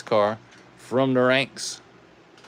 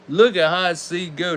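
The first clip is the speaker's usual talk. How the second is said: higher and brighter, cheering the car on; excited; 4 semitones higher than usual. Real, not acted. Host cheering the toilet car down the track, excited. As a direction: hype it up as the car flies.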